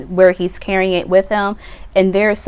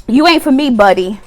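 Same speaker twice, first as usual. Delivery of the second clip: sassy dismissal; 4 semitones higher, 4 dB louder than usual. Pretend. Acted dismissal.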